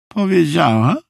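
high, lightly strained character voice; high, effortful lady's voice; groaning with effort. A narrator's reading. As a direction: push the word out while tugging on a boot. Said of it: "stęknęła".

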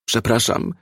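mild moaning apology; moaned. A narrator's reading. Frightened suspect apologising at gunpoint, moaned. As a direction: whimper it lightly, without force. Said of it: "jęknął pobladłszy".

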